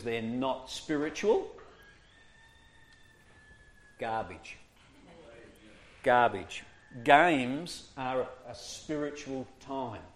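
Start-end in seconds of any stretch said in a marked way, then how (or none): 4.0-4.6 low, soft, scornful Garbage; quiet dismissal. Shown as a demonstration. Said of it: "dismissing a view". 6.0-6.6 firm dismissal. Shown as a demonstration. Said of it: "dismissing a view".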